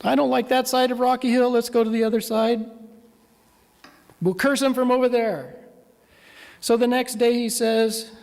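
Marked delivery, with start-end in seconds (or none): 0.0-5.6 raised, frustrated king's outburst; frustrated king ranting at the prophet; going nuts. Retold or imitated. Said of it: "He goes nuts".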